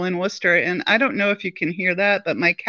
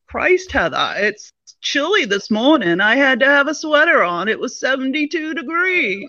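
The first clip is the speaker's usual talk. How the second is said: put-on quintessential Maine accent, pitched up; 6 semitones higher than usual. Retelling her dad calling her up: quintessential Maine accent. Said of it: "he's got that quintessential Maine accent. He's like".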